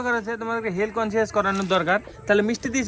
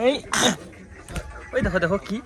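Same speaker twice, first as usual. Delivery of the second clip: put-on talking to a toddler; 6 semitones higher, 4 dB louder, much slower than usual. Showing flowers to a toddler.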